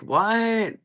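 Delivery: sharp high-pitched what?; a startled, disbelieving what; stunned what. Retold or imitated. Hearing a relative's harsh idea, high surprise. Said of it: "you're like".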